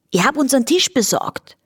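high, pleased-with-itself call; calling flea. A narrator's reading. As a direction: announce it across in Viennese singsong. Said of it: "rief der Floh von ihrem Tisch".

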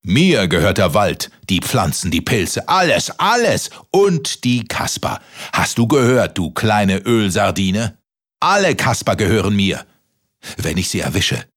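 giant voice. Acted. Giant boasts.

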